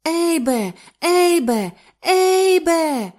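high, loud, rising screams of his name; shrieking. Acted. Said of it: "верещала любонька Лі". (пронизливо верещить)

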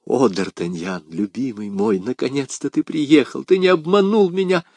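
breathless-happy greeting, building in pitch; joyful reunion. Acted. Woman greets her long-awaited beloved D'Artagnan, joyful relief.

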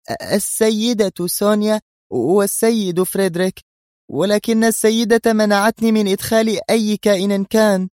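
high, stammering and frightened; trembling secretary. A narrator's reading. Secretary answering the gunman at her head, high frightened stammer. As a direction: stutter out the answer in fear. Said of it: "وهي ترتجف من قمة رأسها".

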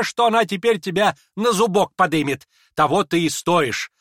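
high, loud, slowing gloat; gloating shout. Acted. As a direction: relish his coming humiliation. Lizaveta gloats loudly.

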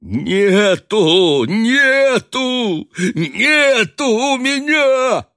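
high, loud, desperate yelling; terrible shout. A narrator's reading. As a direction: scream it out in panic. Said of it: "страшным голосом прокричал Никанор Иванович". (страшный отчаянный крик)

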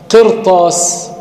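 قرطاس drawn out, ر heavy before the ط; slow demo. Shown as a demonstration. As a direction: stretch قرطاس slowly with a full ر.

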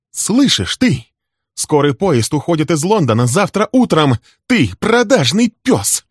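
shrill, loud, enraged accusation; furious shout. Acted. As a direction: scream it at him. Wife turns on cheating husband.

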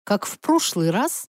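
mildly shaken echo of his words; faltering voice. Acted. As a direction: question it with a touch of a tremor. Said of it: "у меня даже голос дрогнул". (с лёгкой дрожью в голосе)

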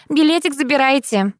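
high sing-song call. A narrator's reading. Courier sing-songing the ticket back to the narrator, sing-song. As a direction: trill it out cheerfully. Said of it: "пропела курьерша".

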